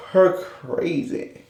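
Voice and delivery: "crazy" stretched long and slow; drawn-out crazy. Acted. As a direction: draw out "crazy" slowly. Gushing about a wild castmate.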